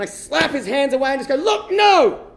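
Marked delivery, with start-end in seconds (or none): 1.4-2.3 high, loud acted shout; hammed-up fed-up yell; exasperated refusal. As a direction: shake off a pestering drunk. Slaps the drunk sailor's hands away.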